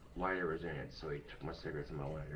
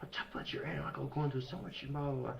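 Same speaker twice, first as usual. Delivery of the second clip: high-pitched mock scolding; imitating mom; 8 semitones higher than usual. Mom scolds son for fighting on Christmas, high imitation. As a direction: mimic a mother's telling-off, high and trailing into blahs. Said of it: "My mom's like".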